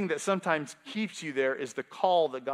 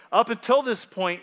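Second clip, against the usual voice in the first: ordinary talk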